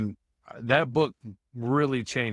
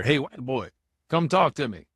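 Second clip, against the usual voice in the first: mild mock yell, louder at the end; retold yell; 3 semitones higher, 3 dB louder than usual. Inmate calling across the hall to the man opposite, mild retold yell. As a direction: imitate someone calling over, only half raised. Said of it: "he yelled over there".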